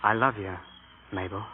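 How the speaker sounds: soft sincere I love you; tender. Acted. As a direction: say it gently, meaning it. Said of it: "Say it without the "all right".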